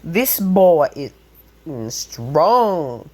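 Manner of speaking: drawn-out, high, loud "damn!" of amazement; slow, hammed-up amazed shout; astonished onlookers. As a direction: stretch it out in over-the-top awe. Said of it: "they go like".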